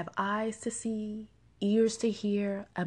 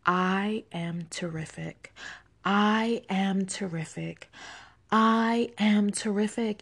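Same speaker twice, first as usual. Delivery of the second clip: building each time; slower than usual. Shown as a demonstration. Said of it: "Say it with me three times".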